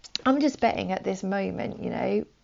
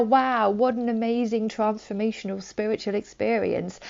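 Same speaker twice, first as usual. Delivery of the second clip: mock hype; 2 semitones higher, 4 dB louder than usual. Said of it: "not in a really loud, impressive way".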